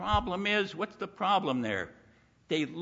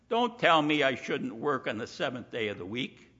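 mock defiance. People defying God, acted slowly.

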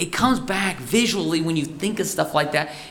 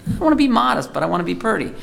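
lightly voiced high-pitched girlish plea; girl's mild protest; 5 semitones higher, much faster than usual. Girl protesting to God about what to wear, lightly acted plea. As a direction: play a girl gently pleading, pitch jumping up. Voices girls' worry over clothes.

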